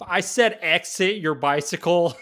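loud insistent cop. Pretend. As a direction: repeat the order like an annoyed cop. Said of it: "sounds like cop talk to me".

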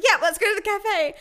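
high, loud, imitated winded panic; hammed-up gasping plea; out of breath. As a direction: act desperate and breathless, pitch climbing. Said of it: "I was so out of breath".

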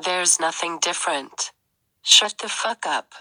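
a subtly different robot voice; slightly altered voice; changed voice. Acted. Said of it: "you're changing your voice".

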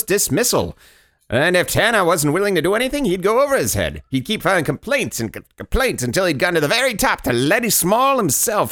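mock outrage with swooping pitch; indignant ranting character. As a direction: read it like a mounting petty tirade. Reads character's escalating indignant fantasy aloud.

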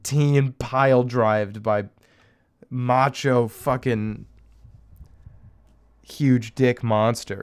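hammed-up slow porn-title read; mock porn title. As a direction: announce it like a trashy headline.

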